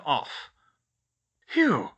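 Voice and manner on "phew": high, falling "phew" of relief; sigh of relief. A narrator's reading. Girl after putting out the fire, relieved high sigh. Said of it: "she sighed with relief".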